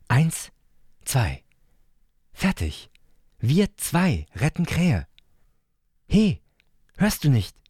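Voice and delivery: hohe, eifrige Kinderstimme; zählt und drängelt wie ein kleiner Junge; kleiner Bruder. Acted. Leo als kleiner Bruder. (hohe, eifrige Kinderstimme)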